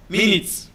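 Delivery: MINUTES as MIN-its, weight up front; MIN-its, as in time; stress on first syllable. Shown as a demonstration. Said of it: "the first syllable is the stressed syllable".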